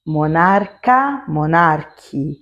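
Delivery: "monarca, monarque" spoken slowly, hard k sound kept; teacher models "monarca, monarque" slowly; Italian example words. Shown as a demonstration. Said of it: "Por exemplo".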